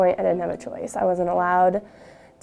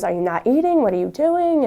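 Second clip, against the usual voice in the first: a hint of a worried mom, rising at the end; 4 semitones higher, 4 dB louder than usual. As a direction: lightly voice a worried mother pressing her daughter. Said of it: "she goes".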